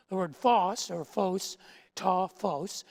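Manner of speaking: "phos" said first as fahs, then fohs, then "ta phos" as tah fohs; "phos" demonstrated, fahs then fohs; Greek word demo. Shown as a demonstration. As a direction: try out "phos" two ways, then with "ta". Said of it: "is the word for light".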